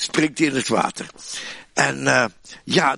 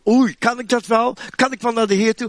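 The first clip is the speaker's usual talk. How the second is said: excited doubt; 6 semitones higher than usual. Acted. Peter's excited inner doubt.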